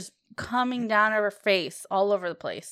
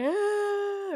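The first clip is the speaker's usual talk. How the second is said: mock crying wail; 9 semitones higher than usual. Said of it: "And she's crying. She's like".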